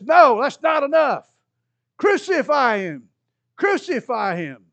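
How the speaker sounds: loud, high, slow furious demand; chief priest demanding. Acted. Chief priest rejecting Pilate, shouting crucify him. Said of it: "The chief priest says".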